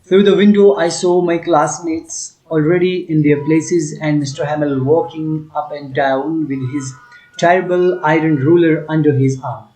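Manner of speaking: slow, deliberate text reading for the class; slow reading aloud. Acted. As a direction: read each phrase slowly for students. Teacher reads English text aloud. (धीमी आवाज़ में पाठ पढ़ना)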